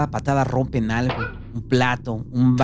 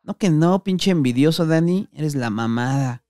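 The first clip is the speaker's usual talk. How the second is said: gloating; 4 semitones higher than usual. Acted. The patas finding Dani's hidden stash, gloating. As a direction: rub the find in his face.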